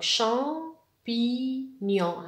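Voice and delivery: "شامبينيون" slowly split as cham, pi, gnon; syllable by syllable. Shown as a demonstration. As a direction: separate and stretch each syllable of "شامبينيون". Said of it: "لا سيلاب اللي فيها حرف".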